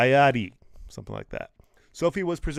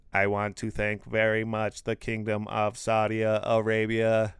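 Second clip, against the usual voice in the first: slow stiff robot voice; 3 semitones lower, slower than usual. Retold or imitated. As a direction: speak like a talking machine. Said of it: "You like my robot voice?".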